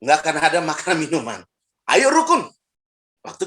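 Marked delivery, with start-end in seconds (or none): 1.9-2.5 rousing call. Acted. Preacher urging unity.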